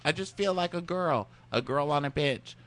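hammed-up wistful girl musing; mock breakup speech. Friend retelling bachelorette breakup, in a high wistful mock voice. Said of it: "she's like".

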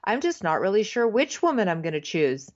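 mock stilted line reading; lightly imitated bad, stilted actor; stilted acting. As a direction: mimic an acting-workshop scene. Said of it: "It sounds stilted, like he's at an acting, um, workshop".

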